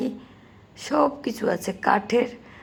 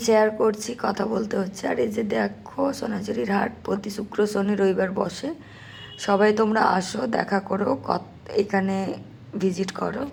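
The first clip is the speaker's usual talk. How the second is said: sore throat, strained voice; pushing words through a hoarse throat. Real, not acted. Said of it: "গলাটা পুরো বসে গেছে".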